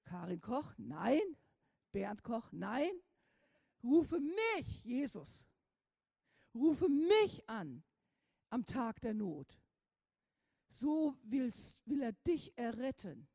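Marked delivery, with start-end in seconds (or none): 3.8-9.6 emphatic quote. Real, not acted. Preacher quoting the psalm.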